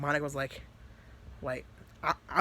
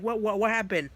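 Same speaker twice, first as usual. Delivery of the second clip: higher, stammered mock panic; freaking out; 6 semitones higher, 4 dB louder than usual. Monica running in to Natsuki, freaking out. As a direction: repeat yourself in a flustered rush. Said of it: "like, freaking out".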